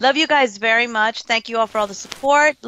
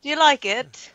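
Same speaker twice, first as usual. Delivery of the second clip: hopeful show-off in mock British; lightly played British accent; playful British accent; 4 semitones higher than usual. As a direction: present it proudly in put-on British. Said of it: "And I will show up on this show and I'll say".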